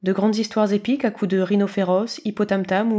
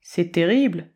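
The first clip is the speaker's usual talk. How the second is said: mock dismay; 3 semitones lower, slower than usual. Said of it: "singea-t-il".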